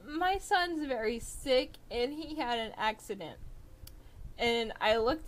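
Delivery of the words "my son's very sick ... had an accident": a lightly voiced anxious old woman; worried old lady. Old lady telling the cashier about her sick son, high and fretful.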